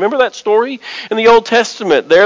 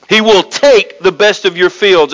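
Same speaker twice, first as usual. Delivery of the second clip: "take" leaned on and lengthened; stress on TAKE; 3 semitones lower than usual. Shown as a demonstration. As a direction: make "take" the heavy word. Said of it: "I'm gonna emphasize the word".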